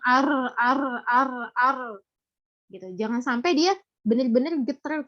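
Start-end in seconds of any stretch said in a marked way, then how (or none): 0.0-1.8 "ar" repeated as a long rolled trill; over-trilled r demo. Shown as a demonstration. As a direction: roll "ar" too many times. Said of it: "Jangan sampai dia terulang-ulang". ("ar" yang bergetar berulang-ulang)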